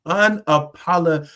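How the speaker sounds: real laugh breaking up "unapolo-"; laughing mid-word. Real, not acted. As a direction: chuckle through "unapolo-" while stumbling on it. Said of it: "I can't get it out tonight".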